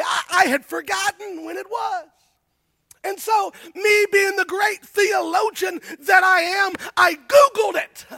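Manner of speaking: excited, self-mocking. Real, not acted. Preacher joking to the church about googling Pentecost, rising excitement. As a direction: build it up, poking fun at yourself.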